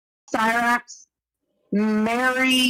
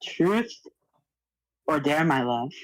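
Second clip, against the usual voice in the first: seductive voice; 5 semitones lower, slower than usual. Pretend. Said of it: "talk in a seductive voice".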